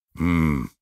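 a low, reluctant hum from the king; grudging closed-mouth hum; low grumble. Acted. King half agrees with the queen, reluctant hum. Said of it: "bromde de koning".

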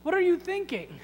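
self-important, lightly exasperated objector; mock protest. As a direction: explain the rules to someone who just doesn't get it. Acted lame man making excuses to Jesus.

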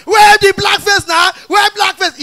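crowd shouting. Retold or imitated. Benin crowd chanting for the missing act. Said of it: "Benin boys dey shout".

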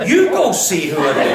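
throwing it back with a chuckle; laughing, bounce the order back; laughing retort. Retold or imitated. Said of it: "So I said to her".

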